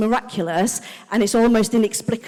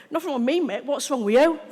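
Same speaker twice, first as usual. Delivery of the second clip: defiant retort; 4 semitones higher than usual. Retold or imitated. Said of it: "my natural response".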